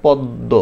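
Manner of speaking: পদ্ম said "poddo", doubled দ. Shown as a demonstration. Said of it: "দয় দ, মনে হয় না এরকম". (পদ্ম দ্বিত্ব দ-এ)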